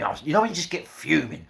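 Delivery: normal talking voice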